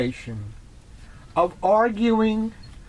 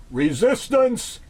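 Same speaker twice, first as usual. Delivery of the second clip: Borg quote; 4 semitones higher than usual. Retold or imitated. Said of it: "the Borg said".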